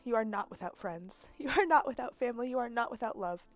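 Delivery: a hint of a parting mother's message; lightly voiced Jadi. Jadi's message to Sable, lightly voiced farewell. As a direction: read it gently, like a farewell recording.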